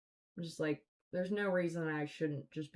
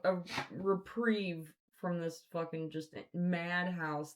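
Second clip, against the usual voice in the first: exasperated plea; 5 dB louder than usual. Real, not acted.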